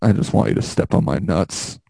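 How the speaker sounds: low mumbled mock plea; lightly voiced pleading friend; mock needy plea. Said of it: "Brandon, you're just like".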